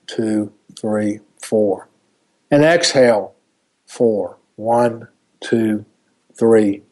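calm, slow breath counting; guided meditation. Acted. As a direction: count the breaths gently and evenly. Leads a breathing exercise.

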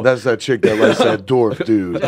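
slow, laughing imitation of a guy; a light dude impression, slowed down; impression of moviegoer. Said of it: "That was a good impression".

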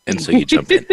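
breaking into high laughter mid-sentence; real giggling fit; laughing. Real, not acted. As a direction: laugh the words out, high and loud.

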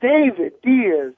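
slow, drawn-out boxing ring intro; mock ring announcer. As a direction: stretch each word like announcing a fighter.

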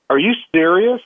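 retelling the friend's high, disbelieving question; shocked disbelief. Retold or imitated. Friend stunned that the promised job never existed, asks in high disbelief.

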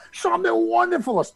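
high, garbled mock yell; mock shouted affirmation. Man at the mirror brushing teeth, mock shouted affirmation. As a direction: belt it out as if through toothpaste.

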